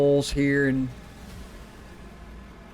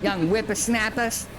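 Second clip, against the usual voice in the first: higher, slow crotchety grumble; old man voice; 7 semitones higher, slower than usual. Retold or imitated. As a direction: scoff at the youngsters.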